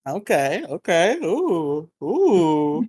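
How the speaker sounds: eager, rising okays and swooping oohs; way too excited, lilting upward; overexcited. Real, not acted. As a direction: ooh with mounting intrigue, each word lifting sharply. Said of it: "You sound way too excited for this".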